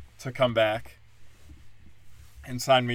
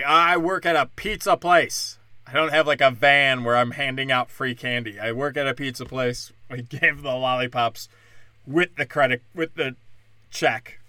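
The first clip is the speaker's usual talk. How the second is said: loud defensive protest; 4 dB louder than usual. Retold or imitated. Server protesting to staring shoppers, loud and defensive. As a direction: insist on it to the crowd.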